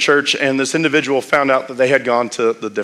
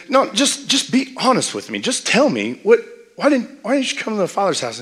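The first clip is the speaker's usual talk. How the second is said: pleading demand; 7 semitones higher than usual. Retold or imitated. Retold friend pressing for answers.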